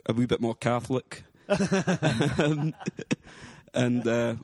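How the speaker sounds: light put-on Scottish accent, rolling the r's; casual chat in a hammed-up Scottish accent. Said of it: "a Scottish accent".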